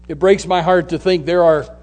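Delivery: grieving pastor, restrained and halting; sorrowful. Real, not acted. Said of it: "in a sorrowful way as a pastor".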